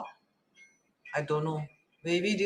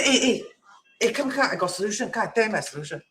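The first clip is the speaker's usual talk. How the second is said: pushy know-it-all; 2 semitones higher, faster than usual. Shown as a demonstration. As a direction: beckon insistently, as a bad example. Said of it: "but in a humble way".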